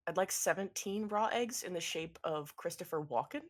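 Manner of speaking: deadpan repeated order. Acted. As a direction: restate it lifelessly, without reacting. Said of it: "an absolutely dead voice goes".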